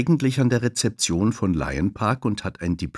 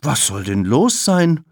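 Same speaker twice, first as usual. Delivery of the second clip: calling out; 7 semitones higher, 6 dB louder than usual. Acted. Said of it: "ruft Thabo".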